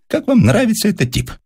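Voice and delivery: high indignant outburst; the professor fumes to his assistant. A narrator's reading. (возмущённо, высоким голосом)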